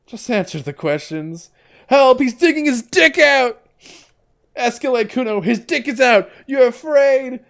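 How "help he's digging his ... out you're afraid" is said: high, frantic screams for help; shrill panicked kid yelling help; child shouting for help. Acted. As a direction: yell it out the window like a panicked kid.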